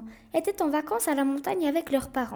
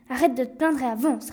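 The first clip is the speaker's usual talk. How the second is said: curt reply. Acted. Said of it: "répondit sèchement le garçon".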